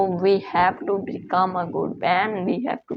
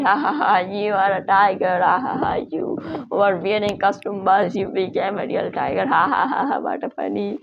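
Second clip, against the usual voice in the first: mocking laughter. Face mocks the tiger.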